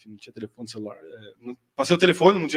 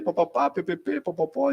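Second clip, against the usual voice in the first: put-on baby babble; slower than usual. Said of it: "falando com ele ali".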